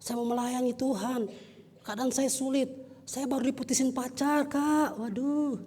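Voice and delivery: a hint of high-voiced whining to an elder; imitated complaining youth. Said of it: "Mungkin teman-teman berkata".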